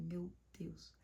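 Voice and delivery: breathless whispered gasp of shock. Retold or imitated. Hearing her friend nearly jumped, a stunned whisper.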